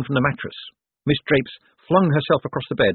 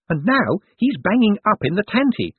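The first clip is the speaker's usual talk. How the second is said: gossiping nurse; 10 semitones higher than usual. A narrator's reading. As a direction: relish every rumour.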